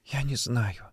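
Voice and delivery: soft, tearful denial; understated sob; sobbing. Acted. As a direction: whimper it weakly through tears. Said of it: "всхлипывала она".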